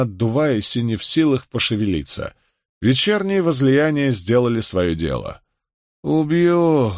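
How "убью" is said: high, wheezed-out threat; winded, angry rasp; hoarse threat. A narrator's reading. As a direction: croak it out in drunken fury. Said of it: "прохрипел он".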